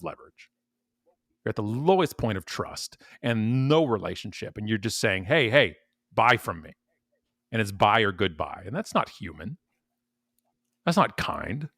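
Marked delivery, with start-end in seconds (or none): 5.3-6.7 mock pushy salesman. Mocking a cold caller.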